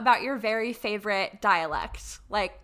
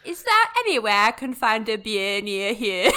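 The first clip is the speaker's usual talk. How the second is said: a learner's imitation of Welsh Valleys; Welsh Valleys accent. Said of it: "that wasn't bad".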